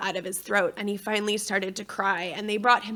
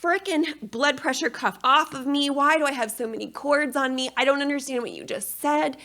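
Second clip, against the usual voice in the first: higher, rushed confused questions; a mild mock of being overwhelmed; lost and frantic in the delivery room; bewildered panic; 4 semitones higher than usual.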